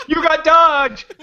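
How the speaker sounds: high, slow gleeful holler; mock prank shout. Prankster to drive-thru worker after the horn, high slow mock shout. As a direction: crow it like a prankster.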